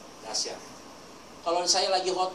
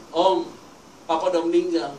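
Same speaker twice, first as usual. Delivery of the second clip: louder, lightly voiced grieving daughter; imitated tearful daughter; 3 semitones higher, 6 dB louder than usual. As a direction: break the news as a crying daughter, mildly acted. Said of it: "Anak perempuannya nangis ketemu saya". (menirukan anak yang menangis)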